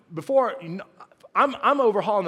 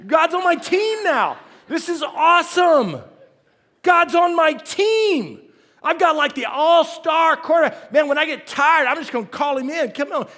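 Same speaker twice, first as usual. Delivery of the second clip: gleeful self-mockery; 8 semitones higher, 6 dB louder than usual. Pastor mocking his old belief, high loud bragging. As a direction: brag like a kid with a star player. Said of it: "I thought".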